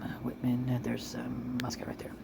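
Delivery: whispering. Real, not acted. Muttering while searching screen.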